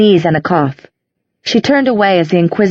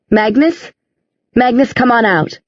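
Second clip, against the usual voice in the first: calling out, pitched up toward the gate; raised voice; 6 semitones higher than usual. A narrator's reading. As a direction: call him out from across the lawn. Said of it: "He raised his voice".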